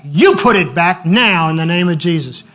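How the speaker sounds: sudden emphatic order, punching the first words; firm retold command. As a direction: order a spirit about with authority. Retold command to an evil spirit.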